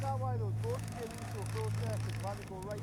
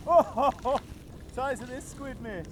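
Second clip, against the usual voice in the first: excited; 4 semitones higher, 12 dB louder than usual. Real, not acted. Excited about a big squid.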